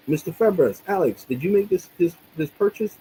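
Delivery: a hint of a querying bank employee; imitated bank caller. Bank agent calling about a purchase, lightly imitated.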